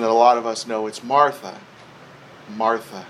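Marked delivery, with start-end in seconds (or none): 1.0-3.0 low, tender name-calling, with a pause between; loving repetition. Retold or imitated. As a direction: gently repeat her name to calm her. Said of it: "Repeated in a way to say".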